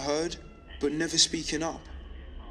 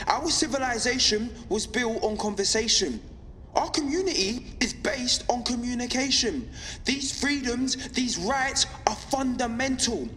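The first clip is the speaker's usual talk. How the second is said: impassioned, slightly raised-pitch radio address; defiant broadcast; 4 semitones higher than usual. Acted. Pirate broadcaster rallying listeners against government control, defiant. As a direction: press each point with steady conviction.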